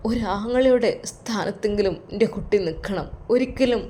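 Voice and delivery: put-on tearful old father. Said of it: "അത് പറഞ്ഞുകൊണ്ട് കരയുന്നു".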